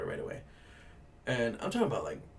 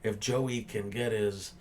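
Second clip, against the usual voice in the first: mocking customer; slower than usual. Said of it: "trying to be funny".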